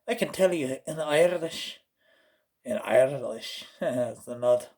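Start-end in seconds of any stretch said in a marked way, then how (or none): 0.1-3.6 lilting Irish brogue; light put-on Irish accent. Shown as a demonstration. Showing off a Celtic accent, Irish. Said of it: "a Celtic accent".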